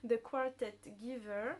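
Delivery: slow English title said with a strong French accent. Real, not acted. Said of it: "avec mon accent, euh, de ouf". (anglais avec un gros accent français, lent et appuyé)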